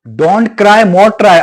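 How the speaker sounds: sarcastic quote of the motivational line; mocking the slogan. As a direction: repeat the catchphrase with a sneer. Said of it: "आपने तो ऐसा बोल दिया है".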